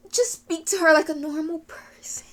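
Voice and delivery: worn-out exasperation; frustrated plea. Real, not acted. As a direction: plead with the character, losing breath. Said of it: "it's frustrating".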